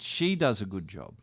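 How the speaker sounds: "She" lifted, then a falling line; stress on She. Retold or imitated. Star praises the lady with the cheese, stress on "She". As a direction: lean on "She", retold praise.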